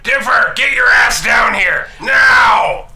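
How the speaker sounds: loud, slow gruff yell; gruff shout. Acted. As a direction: bellow up the stairs like an old man. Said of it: "his grunkle's gruff voice".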